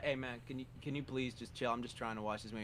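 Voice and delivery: low, soft polite plea to a neighbour; hushed theater whisper-voice; hushed request. Retold or imitated. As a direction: ask him quietly to chill. Asking neighbour to quiet down.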